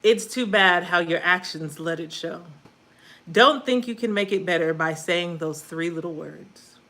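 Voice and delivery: emphatic, measured poetry recital; spoken-word poem. Acted. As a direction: punch the line openings, pause between phrases. Recites own poem on stream.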